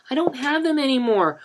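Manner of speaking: put-on a boy breaking down in tears; crying shout. A narrator's reading. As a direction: wail it through tears.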